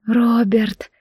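беззвучный шёпот сквозь ком в горле; прошепчи имя, сдерживая слёзы. A narrator's reading. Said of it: "прошептала сквозь комок в горле". (прерывистый шёпот)

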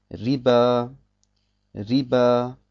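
Riba langsam, mit hellem R; helles Ra. Shown as a demonstration. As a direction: sprich das R in Riba hell. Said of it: "dann wird es hell ausgesprochen". (Riba mit hell gefärbtem Ra)

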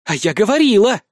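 proud, loud I-told-you-so. A narrator's reading. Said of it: "с какой-то непонятной гордостью заявила".

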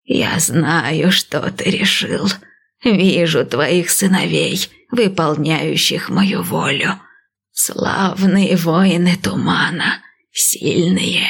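slow, lightly voiced old priestess; calm old seer, unhurried; old woman voice.

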